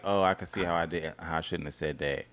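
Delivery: imitating a low, quick climb-down; sheepish concession. Voicing him admitting he misspoke, sheepish. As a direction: trail off softly, mock contrite. Imitating husband backing down afterwards.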